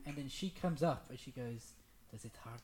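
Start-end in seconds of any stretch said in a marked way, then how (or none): 2.1-2.6 a lightly imitated thick Italian-or-Romanian accent; thick foreign accent. Woman asking her partner mid-tattoo, in a mock thick accent. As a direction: mimic her heavy Eastern European accent, a bit low and soft. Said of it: "Like that, really thick".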